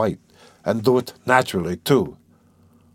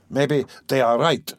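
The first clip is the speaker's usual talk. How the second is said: constrained smile; 2 semitones higher than usual. Acted. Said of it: "he said with a constrained smile".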